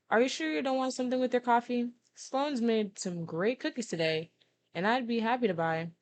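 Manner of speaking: lightly voiced friend making an offer; friendly Jesse. Voices Jesse offering cookies to Grudge.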